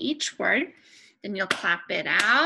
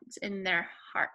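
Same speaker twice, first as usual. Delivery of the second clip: whisper; 3 semitones lower, 6 dB quieter than usual. Acted. Explaining opinion to kids.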